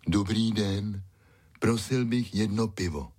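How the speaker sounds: polite talking-dog voice; said aloud. A narrator's reading. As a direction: order courteously as a dog. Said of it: "řekl nahlas".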